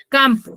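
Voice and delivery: "Campo" with the first syllable CAM stressed. Shown as a demonstration. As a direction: lean on CAM in "Campo", letting "po" fall. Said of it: "llevaba la mayor fuerza de voz". ("Campo" con la fuerza de voz en CAM)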